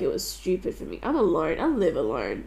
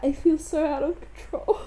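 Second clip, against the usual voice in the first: laughing through tears; 6 semitones higher than usual. Real, not acted. Breaking down alone on couch.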